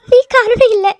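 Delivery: insistent cry. Acted. Wife to her husband, insisting loudly. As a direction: insist he is not to blame.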